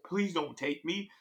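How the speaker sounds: urgent mock begging; begging for life. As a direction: plead with Death, retold. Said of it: "started begging for my life".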